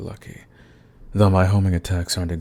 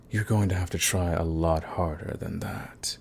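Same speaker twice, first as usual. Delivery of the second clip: whispered taunt; 6 dB quieter than usual. Acted. Villain taunting party's weak attempt.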